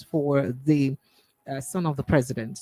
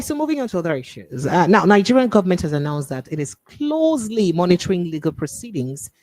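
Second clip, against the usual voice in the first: measured news-anchor delivery, key words punched; news read; 2 semitones higher, 3 dB louder than usual. Real, not acted. Radio host reading Biafra story to listeners, formal news read. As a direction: read the bulletin with formal emphasis.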